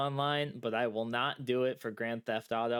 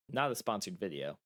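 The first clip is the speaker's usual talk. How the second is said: mocking quote; 5 semitones lower, 3 dB quieter than usual. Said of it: "prefacing everything with".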